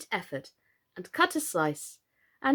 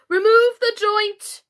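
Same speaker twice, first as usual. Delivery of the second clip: high, loud, slow royal command; imperious order; 11 semitones higher, 9 dB louder, slower than usual. A narrator's reading. Red Queen ordering.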